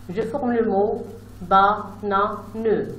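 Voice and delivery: banane read slowly, each syllable drawn out. Shown as a demonstration. Teacher showing the class how to read banane slowly. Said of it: "J'écris une banane, mais quand je lis".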